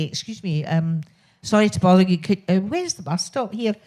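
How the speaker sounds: light, friendly Scottish accent. Shown as a demonstration. Asking a stranger for the bus stop, in a light Scottish accent. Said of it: "just put on a Scottish accent".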